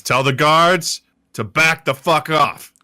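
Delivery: loud, slow threatening order; forceful demand. Acted. Brandon threatens the cult leader, forceful demand. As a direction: push each word out as a warning.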